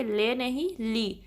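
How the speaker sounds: لی said short and sharp, then لے shown as wrong; sharp li, not le. Shown as a demonstration. Teacher contrasting right and wrong vowels for students. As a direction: keep the kasra sharp on لی.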